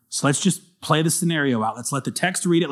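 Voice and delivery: confiding whisper. Real, not acted. Preacher to the congregation, whispering. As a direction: lean in and whisper it.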